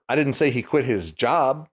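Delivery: "didn't" punched; "didn't" stressed, rest plain. Shown as a demonstration. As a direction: hit "didn't" firmly. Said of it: "depending on which word you put the emphasis on".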